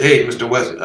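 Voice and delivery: lightly put-on Asian accent; hint of an Asian accent. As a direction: imitate a filmmaker with a mock Asian accent. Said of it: "it's an Asian accent".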